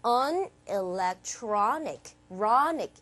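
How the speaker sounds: slow "electronic", vowel before "ic" stressed; low, deliberate "on electronic", RON drawn out. Shown as a demonstration. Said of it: "바로 앞에 모음에 강세를 빡 준다".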